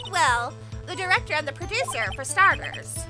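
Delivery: a lightly voiced bossy old lady. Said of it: "I'm doing my old lady voice".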